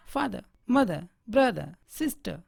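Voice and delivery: फादर, मदर, ब्रदर, सिस्टर each ending in schwa, no r; slow list, dropping each final r; silent R. Shown as a demonstration. Teacher modelling family words, final r silent in each. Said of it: "आर का उच्चारण नहीं के बराबर".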